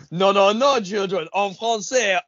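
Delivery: a hint of a scolding teacher from The Simpsons; lightly voiced prim teacher; mock French teacher. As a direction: tut the children in French. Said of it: "The Simpsons when they do the joke".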